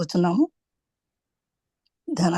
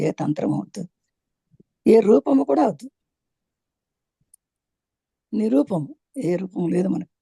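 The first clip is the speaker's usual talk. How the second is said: measured meditation instructions with long pauses; guided meditation. Acted. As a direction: guide them onto the breath, drawing out key words. Leads a meditation. (నెమ్మదిగా విరామాలతో ధ్యాన మార్గదర్శనం)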